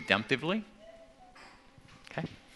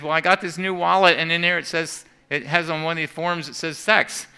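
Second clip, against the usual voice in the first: flustered dad; 6 semitones higher, 7 dB louder than usual. Retold or imitated. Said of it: "stuttered and stammered".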